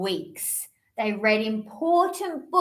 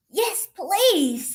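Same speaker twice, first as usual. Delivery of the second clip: bird voice; 7 semitones higher than usual. Acted. Bird answers.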